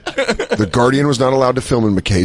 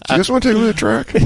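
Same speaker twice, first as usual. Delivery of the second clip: fast sly offer; 8 semitones higher, much faster than usual. Retold or imitated. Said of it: "be like".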